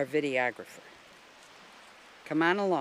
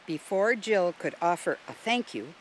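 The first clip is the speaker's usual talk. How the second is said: plain reading voice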